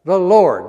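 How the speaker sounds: The Lord, «Lord» punched loud and held; stress on Lord. Shown as a demonstration. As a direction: lean hard into «Lord». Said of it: "you need to emphasize all four words".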